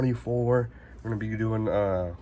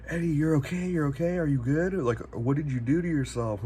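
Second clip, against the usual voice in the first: reassuring nurse; 6 semitones higher than usual. Retold or imitated. Nurses reassuring him on gurney.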